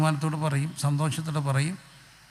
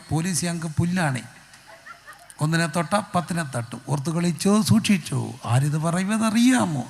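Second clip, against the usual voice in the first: mock revolutionary slogans. Preacher imitates eighteen-year-old rebel on the road, mock slogan chanting. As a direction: chant defiant threats like a young agitator. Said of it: "അവൻ്റെ അകത്തൊരു വിപ്ലവകാരി കിടക്കുക".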